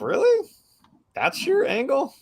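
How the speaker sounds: very high, rising disbelief; mock incredulous. Viewer reacting to her self-serving excuse, mock incredulous. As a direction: pitch soars in exaggerated disbelief.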